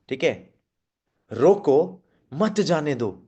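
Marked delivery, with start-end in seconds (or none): 1.3-3.2 slow, रोको, pause, then forceful मत जाने दो; stress on मत. Shown as a demonstration. Trainer showing where the force goes, stress on मत. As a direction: lean hard on मत after a break. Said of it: "मत पे ज्यादा जोर लगाया".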